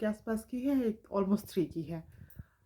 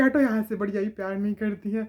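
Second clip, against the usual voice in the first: mock yell; faster than usual. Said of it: "चिल्लाई जोर से".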